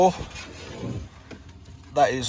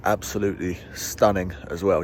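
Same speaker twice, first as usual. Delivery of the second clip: talking with a retainer in; words slightly blurred by a retainer; retainer in mouth; 4 semitones lower than usual. Real, not acted. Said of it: "I still got my retainer in".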